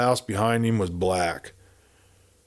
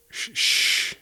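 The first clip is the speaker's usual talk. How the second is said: unvoiced shushing; warning hush. A narrator's reading. Buck hushes Kate at the shanty door, an urgent unvoiced shush. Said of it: "he warned".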